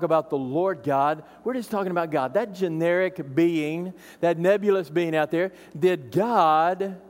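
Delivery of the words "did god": slow, insinuating "did God really say"; snake's honeyed doubt; sly doubting question. Retold or imitated. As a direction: plant doubt slowly. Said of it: "I want you to notice the tone here".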